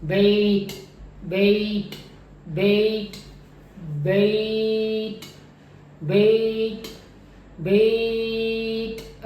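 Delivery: बेट drawn out long on the vowel; stretched बेट. Shown as a demonstration. Teacher stretching बेट to show the glide. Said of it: "अगर मैं इसको लंबा करूँ".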